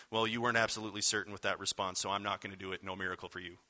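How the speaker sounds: dry mock-sarcastic reply, fast then trailing off; a hint of mocking sarcasm, deadpan; sarcastic Jesus. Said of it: "that was loaded with sarcasm".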